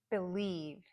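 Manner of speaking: Believe with a reduced be and full LIEVE; careful model of Believe, weak start, strong end; last-syllable stress. Shown as a demonstration. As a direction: lean on the second syllable of Believe. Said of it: "words where the last syllable is".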